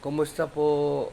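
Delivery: slow, drawn-out greeting on the pet's behalf; lightly voiced pet greeting, slow; speaking for the dog. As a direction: stretch the greeting out, prompting the dog. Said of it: "Yun, sabi mo".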